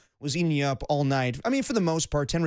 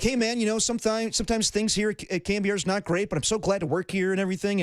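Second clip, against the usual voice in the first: higher, sunny upbeat spin; upbeat young Tony impression; 5 semitones higher than usual. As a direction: sell it with forced cheer. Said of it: "young Tony will always be like".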